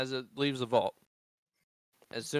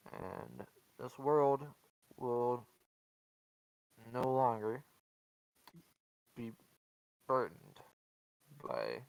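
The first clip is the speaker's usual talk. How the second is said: plague bringer voice; 5 semitones lower, 7 dB quieter than usual. Acted. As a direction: rasp it out like an old recording. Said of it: "you hear a raspy, um, voice".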